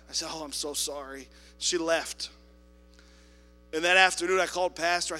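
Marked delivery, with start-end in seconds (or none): 0.3-1.3 soft, lower sheepish sorry; meek apology. Retold or imitated. Attendant sheepishly apologizes to the lady. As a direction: apologize small.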